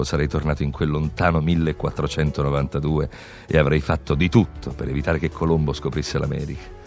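ordinary talk

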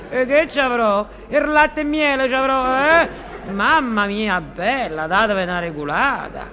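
brash Roman comic character; sassy flirt showing off; comic coquette voice. Acted.

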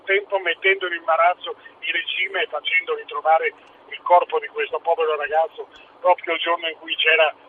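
talking through a car speakerphone; phone voice, a little distant. Real, not acted. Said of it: "per questo parli in viva voce".

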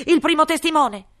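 loud, high royal command; booming king. Acted. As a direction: bellow it like a pompous king. King's voice. (re tonante)

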